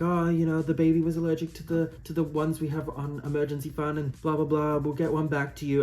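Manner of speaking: high, bright customer service voice; breezy fake-polite staff voice; daycare worker voice. Daycare worker in TikTok skit.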